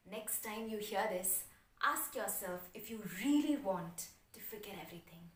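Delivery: measured delivery with long pauses; solemn spoken-word opening; slam poem recital. Acted. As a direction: deliver each line separately, letting it sink in.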